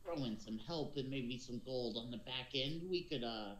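lightly voiced pirate captain; a touch of pirate, hesitant and winding. Captain explaining the island to strangers, lightly voiced pirate. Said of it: "being able to do a pirate voice".

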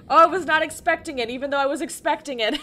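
loud, fast, high rush of words; rattled and rushing; flustered. Real, not acted. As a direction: gabble excitedly after a scare. Reacting right after the scare.

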